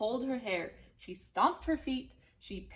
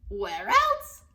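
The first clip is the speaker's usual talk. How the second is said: much higher, louder quip; high exclaim; 9 dB louder than usual. A narrator's reading. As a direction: fling the question out playfully. Narrator's punchy aside.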